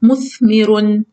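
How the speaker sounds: مثمر drawn out slowly, syllable by syllable; slow model reading. Shown as a demonstration. Teacher to pupils, modelling مثمر slowly. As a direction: sound out مثمر slowly for the class. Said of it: "الكلمة التالية هي كلمة مثمر".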